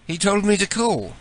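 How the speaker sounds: mock British caller; British accent. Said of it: "switch to my British voice".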